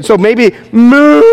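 slow mock moo; playful animal guess; silly moo. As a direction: drag out a goofy cow moo. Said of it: "I don't know what they say".

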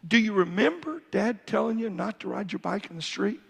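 a hint of a tender father calling his son over; loving father. Shown as a demonstration. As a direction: speak to the boy tenderly, like a loving dad. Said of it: "a loving way".

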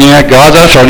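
casual throwaway "Yeah, God's on the throne"; shrugging, lukewarm saying; offhand, no conviction. Retold or imitated. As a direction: toss off "God's on the throne" lazily, as if it means little. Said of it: "No, it's".

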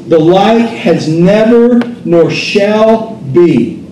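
steady, lifted reading of scripture from the pulpit. Acted. Preacher reads Ezekiel to the congregation, proclaiming. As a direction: proclaim the passage like a prophet.

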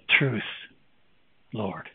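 very soft, low acted submission; humbled reply. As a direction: let each word sink quietly, pausing between them. Voices the humbled woman's reply.

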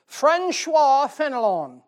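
Francois Fenelon drawn out slow and loud, French-style; slow mock-French Francois Fenelon; careful French name. Shown as a demonstration. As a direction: sound out Francois Fenelon slowly with a French lilt. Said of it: "Now you know why I didn't remember it".

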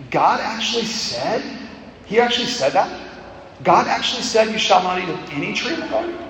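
a light sneering, joking mock of God's word; mildly sneering serpent, not really asking. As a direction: scoff at it like the crafty serpent, half amused. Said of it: "an assertion with a mocking, sneering, joking tone".

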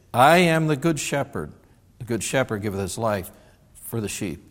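measured, solemn King James reading; scripture reading. Acted. Preacher reading John ten to the church, solemn. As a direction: read it out like holy writ.

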